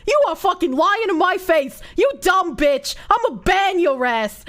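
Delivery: angry rant in a hammed-up Boston accent; thick Boston accent. Streamer rants at a cheap donor in a Boston accent. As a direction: play a furious Boston local mocking a broke viewer. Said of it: "Do it with a thick Boston accent".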